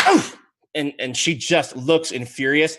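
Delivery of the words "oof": short, sharp "oof" of annoyance; exasperated huff. Acted. Singer furious that her spell failed, exasperated huff. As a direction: huff it out in fury. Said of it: "and she's just like".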